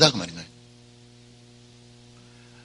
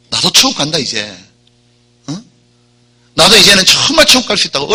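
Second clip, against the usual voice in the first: a happy thief hearing he's saved; joyful thief; 3 semitones higher than usual. Retold or imitated. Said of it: "얼마나 좋았겠어요". (천국 간다며 기뻐하는 강도, 조금 들뜬 목소리)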